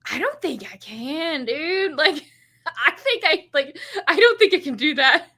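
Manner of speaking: hero's giddy admission, laughing; laughing helpless hero. Retold or imitated. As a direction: say it like a smitten guy who can't help it. Voicing the helpless smitten hero.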